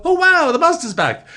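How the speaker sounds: high, loud mock gasp of wonder; mock amazement. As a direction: play the gullible fan, wide-eyed. Mocking amazed viewers.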